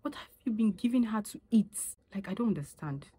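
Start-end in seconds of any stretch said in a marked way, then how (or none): 0.0-1.8 higher, prying busybody voice; higher mock-concerned busybody; nosy onlooker. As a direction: imitate a nosy woman judging a fat baby, pitched up. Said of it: "you be like".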